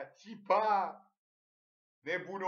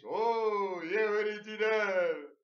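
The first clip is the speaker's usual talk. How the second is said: drawn-out shout, higher and louder; retold delighted shout at the neighbors' fight; mock excited shout; 5 semitones higher, 5 dB louder, much slower than usual. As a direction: shout it slowly like a fan.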